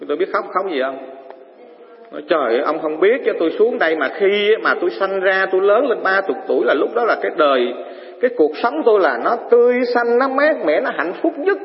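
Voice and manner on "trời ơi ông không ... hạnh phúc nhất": crying plea. Acted. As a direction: beg God not to cut his years, voice rising.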